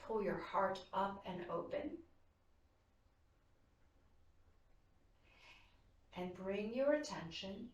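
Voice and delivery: calm, unhurried guiding with long pauses; guided meditation. Acted. Yoga teacher settling listeners into a sound meditation, calm guided meditation. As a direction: ease them into stillness, leaving space between phrases.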